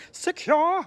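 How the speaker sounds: loud, high British shout; clipped-vowel mock British yell; British police voice. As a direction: call back like a British officer. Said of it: "In British voices".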